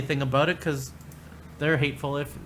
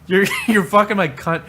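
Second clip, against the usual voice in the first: hammed-up aroused exclamation, higher and louder; mock sexual excitement; 4 semitones higher, 6 dB louder than usual. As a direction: imitate a woman getting carried away. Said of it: "she was getting really excited".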